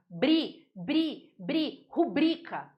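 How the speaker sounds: bri repeated, then rubrica slowly with bri stressed; teacher drilling stress. Shown as a demonstration. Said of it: "É rubrica".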